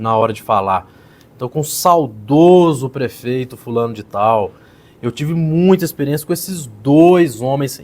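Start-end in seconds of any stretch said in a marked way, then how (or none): 1.4-7.8 slow, leaning hard on dois; emphatic demo. Shown as a demonstration. Coach mimicking the candidate's emphasis on dois. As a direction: stretch it out and punch dois. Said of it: "ele sabe colocar ênfase nas palavras importantes".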